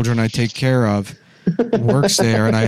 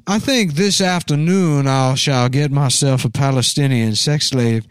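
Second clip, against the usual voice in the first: Southern dandy voice. Retold or imitated. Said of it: "Thanks for doing my cool voice".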